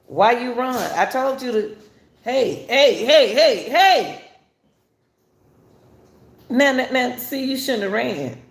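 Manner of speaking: high, loud calls of hey after a runner; yelling officer. Retold or imitated. Police officer shouting at a man who ran. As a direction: shout him down like a cop giving chase.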